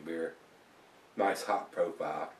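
speaking with glass at mouth; words muffled by the glass rim; talking into a glass. Real, not acted. Seen 0: Glass held at lips while talking, lowered by about 1.9s.

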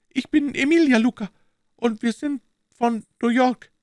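high, far-off voice of an anxious Italian woman. A narrator's reading. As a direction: ask tensely, as a frightened Italian wife. (ängstliche Italienerin, hohe Stimme)

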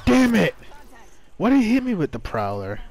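furious shout after being hit; angry outburst. Real, not acted. Just got hit.

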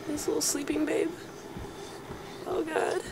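tense whisper, not waking it. Real, not acted. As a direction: breathe the words silently. Sneaking past sleeping creature.

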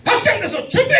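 high, loud call to start. Shown as a demonstration. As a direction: push it through the ceiling. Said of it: "천정을 뚫고 올라가야 돼".

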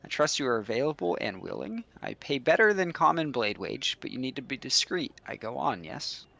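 lightly voiced scheming patron, fast; a hint of a sly noble hiring mercenaries; shady noble patron. Patron pitching a secret job to mercenaries, sly voice. Reads NPC dialogue aloud.

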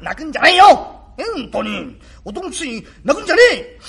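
loud, high and teary; tearful scolding. Acted. Father urging son not to cry, tearful and loud. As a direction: scold him not to cry while crying yourself.

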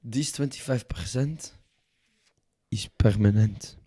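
firm mock French negotiator; put-on French accent. French envoy fixing the host's percentage, French accent. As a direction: state the term in a French accent, with a pause. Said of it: "Fuck this French accent".

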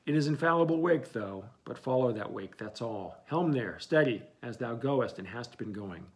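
calling orders. Acted. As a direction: bark the orders across the deck. Captain calling orders to helmsman.

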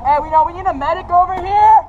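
man down shout. Real, not acted. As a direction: shout across the field for a medic. Calling medic across field.

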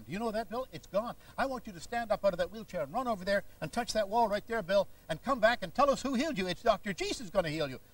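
hammed-up faith healer ordering the man up; W V Grant imitation. Healer telling the man to leave his wheelchair, mock rousing preacher. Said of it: "a short imitation of a man named W V Grant".

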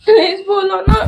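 tearful pleading please; crying plea. Real, not acted. Wife begging her silent husband, crying. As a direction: beg him through tears.

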